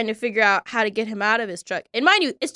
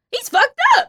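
put-on a much higher jokey Jersey accent; funny Jersey accent; 3 dB louder than usual. Dante from Jersey sizing up the drunk driver: high Jersey accent. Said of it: "He looks at me with his accent".

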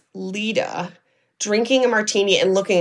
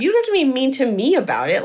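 hurt protest; 5 semitones higher, faster than usual. Retold or imitated. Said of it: "essentially yelling at her about this".

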